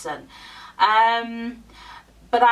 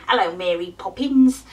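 mock Cockney accent, a bit louder; Dick Van Dyke; 4 dB louder than usual. Vlogger mimicking film Cockney for viewers, mock Cockney accent. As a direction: put on a hammy movie Cockney. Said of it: "sort of Dick Van Dyke".

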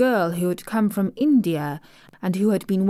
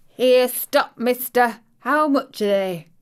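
louder, higher call to stop the pedlar; sudden call; 5 semitones higher, 5 dB louder than usual. Retold or imitated. Mother stopping the passing pedlar, sudden loud call. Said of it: "she calls out quite sudden".

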